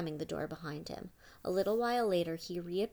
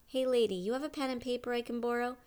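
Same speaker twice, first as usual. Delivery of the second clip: put-on teen boy voice; 6 semitones higher, 4 dB louder than usual. Squid voiced asking lawyer.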